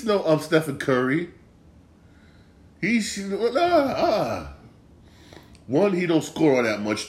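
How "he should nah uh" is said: laughing. Real, not acted. Laughing off own comparison.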